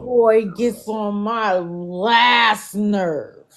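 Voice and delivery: slow, stretched complaint; weary, fed-up groan of a line; exasperated drawl. Real, not acted. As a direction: drag every word out in annoyance. Drawn-out annoyed complaint.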